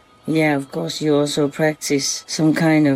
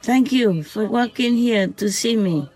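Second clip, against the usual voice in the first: tender talk to fox; 5 semitones higher than usual. Real, not acted. Woman talking lovingly to the fox that visits nightly, tender. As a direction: gently reassure a small animal you love.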